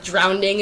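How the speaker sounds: drowning with an extra D; mispronounced drowning. Retold or imitated. Imitating people who say it wrong, drowning as drownding. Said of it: "those people who say, like, drowning".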